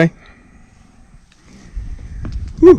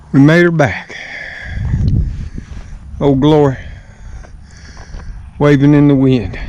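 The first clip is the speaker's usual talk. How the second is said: out of breath. Real, not acted. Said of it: "Old man's a little bit out of breath".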